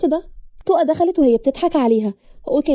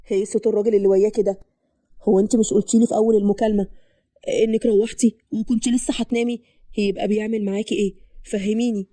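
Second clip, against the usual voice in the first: lightly voiced man, slightly lowered; suspicious lover; 3 semitones lower than usual. Man questions sweetheart about a man's voice, suspicious. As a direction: question her in a lowered male voice.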